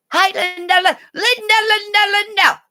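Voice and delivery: sing-song greeting to a viewer; calling out. Real, not acted. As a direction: call her name gleefully.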